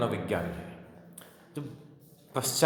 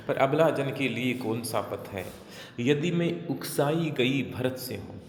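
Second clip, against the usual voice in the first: measured, slowing poetry reading; verse recitation; slower than usual. Acted. Teacher reciting Kaikeyi's oath to the class, measured recitation. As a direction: recite the verse with drawn-out words.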